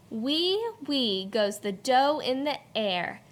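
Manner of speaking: beat-led read-aloud with sound words popped up; rhythmic poem reading. Shown as a demonstration. Teacher reads poem to class with bouncy rhythm. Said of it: "Listen to the beat as the teacher reads this poem".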